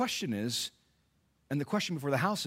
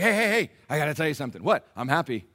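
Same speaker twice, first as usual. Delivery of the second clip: conspiratorial Paul; 3 semitones lower, faster than usual. Retold or imitated. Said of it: "He's like".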